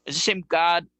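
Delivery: high, loud, fervent shouting; loud indignant rant; fired-up shout. Real, not acted. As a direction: yell it out like you're fed up. Passionate rant about being limited.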